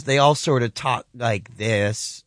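slow American drawl; lightly imitated Southern drawl. Shown as a demonstration. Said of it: "have a bit of a drawl".

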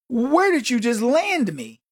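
slow, mildly awestruck retold question; amazed visitor. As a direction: draw it out, imitating a blown-away newcomer. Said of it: "He was blown away".

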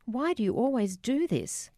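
mocking cruelty. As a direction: throw it at Dad like a scornful teenager. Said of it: "mocking cruelty".

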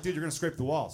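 worried warning. Acted. Watching friends carry furniture down hallway, mild worried warning. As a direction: caution a friend, still fairly controlled. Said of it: "watching my friends carry furniture".

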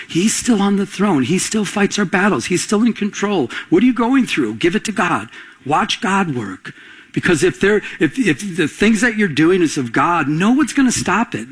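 lifted pitch, urgent sermon cadence; impassioned preaching. Real, not acted. Preacher urges congregation to give it to God, impassioned preaching. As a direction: drive each assurance home to the congregation.

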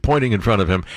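ordinary delivery

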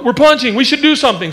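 high-pitched voice for excited feet; eager talking feet. Acted. Feet given a voice in story.

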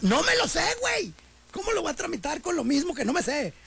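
high, frustrated outburst at the machine; exasperated caller. Retold or imitated. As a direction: squeal it in fed-up disbelief. (cliente harto le grita agudo a la contestadora)

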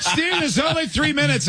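high-pitched mock yell; retold yell. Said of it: "And I actually yelled".

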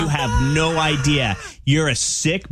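slow, emphatic telling-off; mock indignation. Prankster scolding the scammer, acted indignation. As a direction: retell the moment you let him have it.

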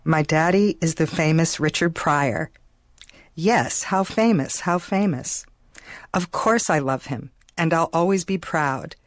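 measured poem reading, each line set apart. Real, not acted. Daughter reads the poem she wrote at eleven, recital style. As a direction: read the poem aloud like a recital, giving each line its own beat. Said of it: "Can I have you read it now?".

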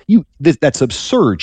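a touch of mocking incredulity; mild mockery. Sarah scoffs at God's promise of a child, mildly mocking. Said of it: "it's a kind of a mockery".

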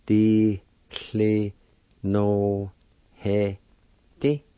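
"Di" "cli" "no" "he" "di" sounded out separately; syllable by syllable. Shown as a demonstration. Teacher sounding out the word phone, syllable by syllable. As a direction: say each syllable on its own. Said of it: "it's pronounced like this".

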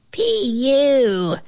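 high drawn-out "pee-yoo"; small, high cub voice; squeaking bear cub. A narrator's reading. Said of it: "squeaked the bear cub".

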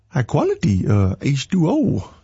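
half-managed movie-quote voice, halting; movie character impression. Worship leader quoting a favorite movie to the crowd, halting character impression. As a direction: attempt a film character's line, faltering midway. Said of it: "What movie is that from?".

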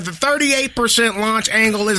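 lightly voiced know-it-all nerd; a hint of a nerdy stats guy. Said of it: "That's my nerd voice".

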